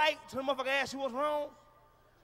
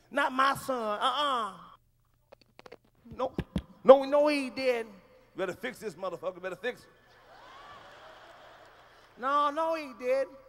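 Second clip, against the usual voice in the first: indignant parent, louder; mock outraged parent; 5 dB louder than usual. Mother defending her son at class, indignant. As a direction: protest like a mother at school.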